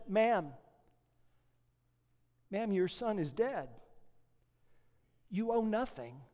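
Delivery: a kind judge easing the news gently; slow, gentle judge. Acted. Judge softly telling a grieving mother her son is dead. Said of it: "and slowly said".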